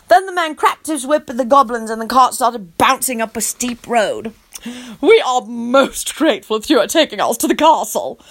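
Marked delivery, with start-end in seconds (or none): 5.0-8.2 loudly. Acted. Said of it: "Tony said loudly".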